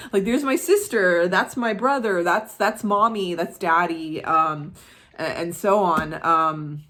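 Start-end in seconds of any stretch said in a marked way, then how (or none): 0.3-4.2 mock excited claimant. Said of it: "she's like".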